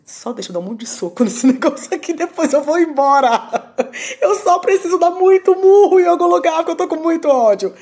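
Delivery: loud, laughing mock fury; half-laughing, acting out her old rage; laughing retold rage. Retelling her plea at the boxing gym, laughing loudly.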